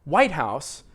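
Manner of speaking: "White House" as one word; stress on WHITE. Shown as a demonstration. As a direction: punch White, let House fall. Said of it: "as if they are one word".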